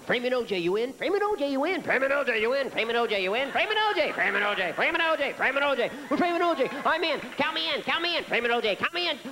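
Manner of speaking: hammed-up excited conspirators; whisper chain passing. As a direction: pass the secret eagerly down the line. Word passed along chain.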